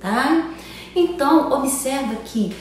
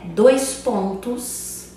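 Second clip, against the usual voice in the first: slow demo; much slower than usual. Shown as a demonstration. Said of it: "representada por algumas pontuações".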